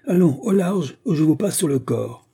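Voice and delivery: high loud threat that eases off; captain warning the boat to keep away; angry threat. Acted. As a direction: drive them off with a threat. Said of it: "s'écria-t-il".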